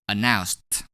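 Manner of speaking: "Announced" ending in a crisp T sound; ED pronounced as T. Shown as a demonstration. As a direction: say "Announced" with the ED as a single T. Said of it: "pronounce E D as T".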